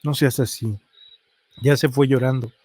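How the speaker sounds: mildly sad, understated reproach; reply with a touch of sadness. A narrator's reading. Telling the coworker the girl left crying, mildly sad. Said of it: "Con tristeza le respondí".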